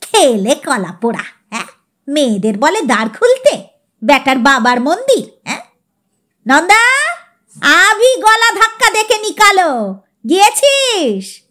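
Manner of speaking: put-on mildly furious old master, rising to a shout; indignant outburst at the servant; furious old man. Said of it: "Chowdhury বেজায় চটে বলে উঠলেন".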